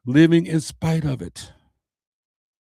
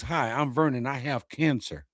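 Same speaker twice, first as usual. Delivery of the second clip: defeated introduction; 6 dB quieter than usual. Retold or imitated. Vernon mocking how he didn't introduce himself, soft and resigned. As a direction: shrink into the diagnosis. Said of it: "I didn't introduce myself as".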